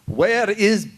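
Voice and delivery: put-on high, slow cabbie accent, excited; lightly voiced New York cab driver recognizing him; imitating the cab driver. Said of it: "the guy looked in the mirror and said".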